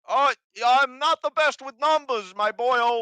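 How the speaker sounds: high, loud, brash goblin voice; loud hobgoblin. Acted. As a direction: bark it out like a pushy hobgoblin.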